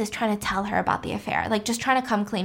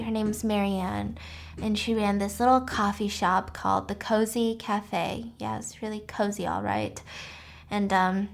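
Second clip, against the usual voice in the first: quiet confession; 2 semitones lower, 5 dB quieter than usual. Retold or imitated. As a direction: confide it quietly, worn down. Adele confides quietly in story.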